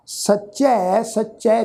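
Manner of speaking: ਸੱਚੈ with a long open "ai" at the end. Shown as a demonstration. Teacher showing the dulavan vowel, ਸੱਚੈ ending in open "ai". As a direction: draw out the final "ai" of ਸੱਚੈ. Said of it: "ਚੱਚੇ ਅੱਖਰ ਤੇ ਦੁਲਾਵਾਂ ਦਾ ਪਾਠ".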